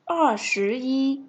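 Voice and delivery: 二十一 drawn out syllable by syllable; slow model reading. Shown as a demonstration. Teacher repeating 二十一 very slowly for students. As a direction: say 二十一 very slowly for learners to copy. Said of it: "mình sẽ đọc là".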